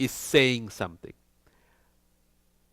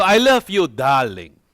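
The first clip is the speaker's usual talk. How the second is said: loud declaration; 7 dB louder than usual. Shown as a demonstration.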